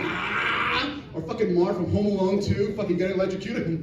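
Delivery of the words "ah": mock Super Saiyan yell. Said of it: "Goku going Super Saiyan".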